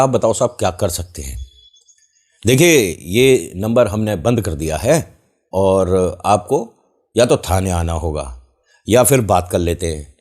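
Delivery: butter up the victim like a fake inspector; smooth fake official. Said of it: "tone बदल गई". (धीमी, नीची आवाज़ में नकली अफ़सर)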